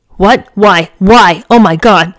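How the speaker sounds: shocked. Acted. Grandma hears shocking news.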